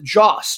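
"Jos" said as one short syllable, like "joss"; careful pronunciation. Shown as a demonstration. Host naming a Nigerian city for listeners, careful pronunciation. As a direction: commit to "Jos" plainly, rhyming with "boss". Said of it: "I'm just gonna pronounce it".

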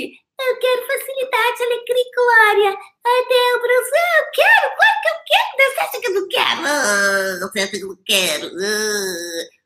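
high, far-off mock whining voice, rising to a wailing cry; whiny complainer. Mocking a viewer stuck in sad songs, high whiny wail. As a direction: whine like a spoiled person who wants it all. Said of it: "aqui tá falando que".

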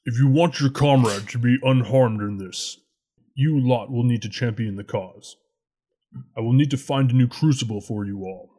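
lightly voiced dragon; a hint of a regal dragon. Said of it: "I'm in dragon voice now".

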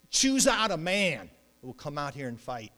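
loud, put-on warrior's challenge; Philistine challenger. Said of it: "here's the Philistine saying".

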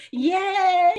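mock cheer in a tiny high voice; high squeaky yay. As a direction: squeal it like a forced celebration. Mock cheering over taxes.

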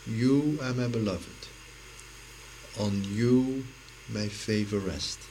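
measured, pausing between phrases; gentle voice of God. Acted. Inner voice heard in silent prayer, gentle and measured. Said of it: "To hear that voice saying".

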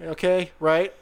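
imitating a TSA agent in a Southern accent; lightly put-on Southern accent, talking through a pat-down. Traveler imitates TSA agent explaining the waist pat-down, Southern accent. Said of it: "talking in a Southern accent".

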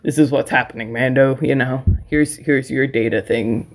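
a lightly voiced gruff boss handing out a job; stern bounty hunter. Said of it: "very serious".

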